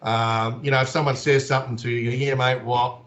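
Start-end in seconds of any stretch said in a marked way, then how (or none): 2.2-3.0 offhand, laid-back Aussie reply; casual Aussie. Shown as a demonstration. Aussie demonstrating a reply to someone talking to him, casual. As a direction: answer like an easygoing Aussie mate. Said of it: "It's really casual".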